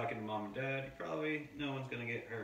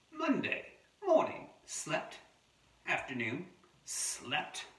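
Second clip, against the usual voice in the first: clipped diary entries read aloud with pauses; wombat diary narration; 6 semitones higher, slower than usual. Acted. Adult reading a wombat's diary to children, terse storybook narration. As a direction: read each short entry as a wombat's terse log.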